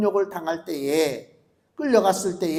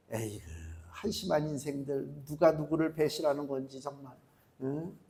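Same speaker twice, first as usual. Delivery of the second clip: much softer, lower scornful muttering; disgusted muttering; 6 semitones lower, 11 dB quieter than usual. Real, not acted. Preacher scorning politicians' talk of betrayal, muttered disgust. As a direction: scoff at them under your breath.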